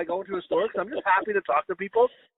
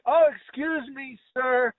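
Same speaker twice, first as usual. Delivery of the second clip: overly polite call; 6 semitones higher, much slower than usual. Retold or imitated. Politely calling to person on ladder.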